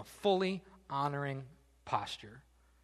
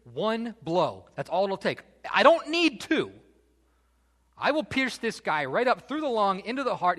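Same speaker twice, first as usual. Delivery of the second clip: eager plea rising to a high, loud peak; begging, building; 5 semitones higher, 5 dB louder than usual. Acted. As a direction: act out a warrior pleading for one chance. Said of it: "he's just begging".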